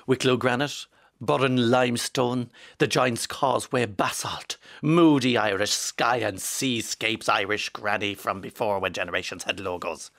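slow, swelling, heartfelt read; passionate reading. Acted. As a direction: read the list like a love letter to grey. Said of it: "I got a little bit passionate there".

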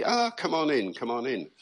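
lightly acted friendly invitation; welcoming. Cave dweller to a voice with the same accent, welcoming.

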